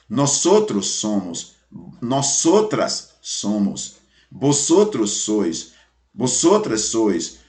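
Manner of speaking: slow, clear drill of each pronoun and verb; teacher drilling the verb ser slowly; slow drilled conjugation. Shown as a demonstration. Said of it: "Veja como é que ele fica".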